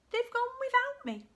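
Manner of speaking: high, mock-woeful wail; plaintive cry. A narrator's reading. Drip left behind by his family, high plaintive cry. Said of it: "And he cried".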